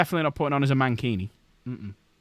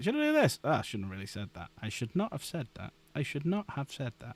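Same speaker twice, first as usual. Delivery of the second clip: Hagrid; 7 dB quieter than usual. Retold or imitated. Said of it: "I feel like Hagrid at times".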